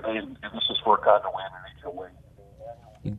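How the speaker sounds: faint, distant phone caller; phone held away. Real, not acted. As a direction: caller drifting away from the mouthpiece. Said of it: "John, you gotta talk into the phone. We're losing you, buddy".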